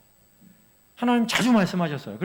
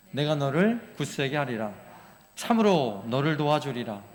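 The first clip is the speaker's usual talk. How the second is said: group scripture reading; 3 semitones lower than usual. Shown as a demonstration. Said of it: "우리 다 같이 한번 읽습니다".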